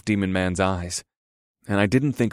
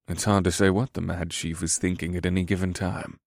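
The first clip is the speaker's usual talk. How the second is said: soft-spoken character voice; Zenkari man; 2 semitones lower, 5 dB quieter than usual. Acted. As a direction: answer softly, in a reserved character voice.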